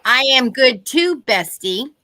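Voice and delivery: loud, slow playful tease; teasing. Pretend. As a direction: tease your friend.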